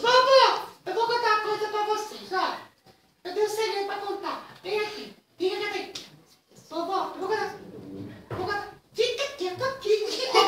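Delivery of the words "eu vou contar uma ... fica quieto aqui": whispering while hiding. Acted. Telling secret, hiding brother.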